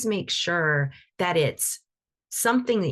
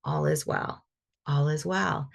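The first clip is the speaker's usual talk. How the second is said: calm belief. Shown as a demonstration. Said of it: "come with the energy of".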